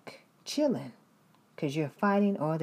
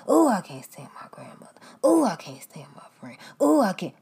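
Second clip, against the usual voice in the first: mock whiny complainer. Complainer about family.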